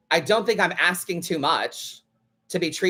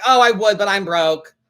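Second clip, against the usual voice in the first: loud, bright fake excuse; hammed-up broke fan; mock fan excuse; 7 dB louder than usual. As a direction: imitate the fan's cheery dodge. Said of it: "she's like".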